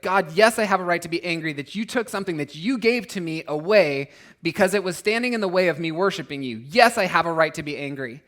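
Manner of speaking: loud, insistent mock defiance at God; defiant protest. Preacher voicing our defiant complaint to God, loudly insistent. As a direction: act out our stubborn claim to be angry.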